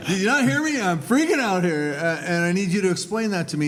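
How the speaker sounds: hammed-up frantic plea with a laugh; laughing mock panic. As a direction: play your own past panic for laughs. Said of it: "And I said".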